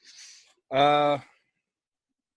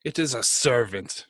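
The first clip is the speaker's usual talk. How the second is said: measured pronouncement with weight on My; imperious dark lord; slower than usual. Acted. Posing as a tyrant god, claiming a servant, imperious. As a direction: claim her as your property.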